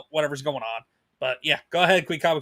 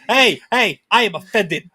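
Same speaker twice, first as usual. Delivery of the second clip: mock offended; 7 dB louder, slower than usual. Husband jokingly takes offense.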